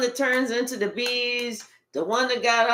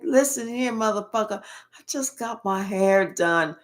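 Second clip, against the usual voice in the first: put-upon grumble, sinking lower; imitated annoyed woman; 5 semitones lower than usual. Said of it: "She's like".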